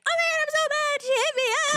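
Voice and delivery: high, loud, whiny mock tantrum of a hurt little kid; dramatic kid tantrum. Mocking her younger self, a wailing child mad at mom, high and loud. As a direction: squeal it out like a sulking child who just got hit. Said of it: "let me be on some, like".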